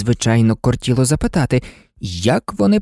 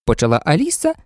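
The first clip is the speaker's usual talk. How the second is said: ordinary delivery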